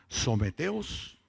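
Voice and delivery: "Someteos" stretched very slow, rising at the end; drawn-out key word. Real, not acted. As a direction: linger on "Someteos". Reads key verse word slowly. ("Someteos" lento y alargado, subiendo al final)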